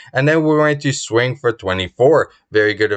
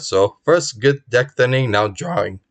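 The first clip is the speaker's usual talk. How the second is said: hoarse voice. Real, not acted. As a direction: voice going hoarse. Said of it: "I'm losing my voice".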